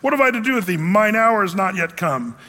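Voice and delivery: mock-harsh Jesus rebuffing Mary; rude reading. Shown as a demonstration. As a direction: read it as a cold rebuff. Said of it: "the way you sort of hear that".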